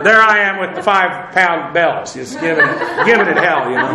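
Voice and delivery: chuckling through the words; laughing. Real, not acted. Teacher to class, laughing at himself with five-pound bells. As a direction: laugh at yourself as you picture it. Mocking himself lifting tiny weights.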